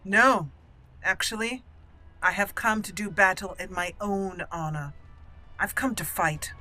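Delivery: lightly voiced, formal noblewoman; measured, deliberate in-character reply; proud dwarf noble. Noblewoman tells the Proving Master she will fight, lightly formal and proud.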